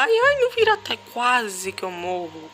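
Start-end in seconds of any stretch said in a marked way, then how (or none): 0.0-1.0 high, loud panicked cry; panicked yelp. Real, not acted. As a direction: yelp as the character almost falls. Near falling in the game.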